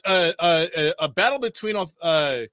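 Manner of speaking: real outrage, pitch shooting up; outraged rant. Real, not acted. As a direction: rant at the author, fully fed up. Outraged at the article's author.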